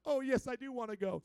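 firm, loud, back to natural pitch; giving in. Acted. Believer giving in to the shepherd, firmly agreeing. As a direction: drop out of the whine into firm assent. Mimics giving in after protest.

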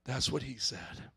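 soft, slow, low and loving; said softly. Shown as a demonstration. Pastor showing congregation how to say it, soft and loving. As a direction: say it gently to your neighbor. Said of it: "just say real softly, real nice, real lovingly".

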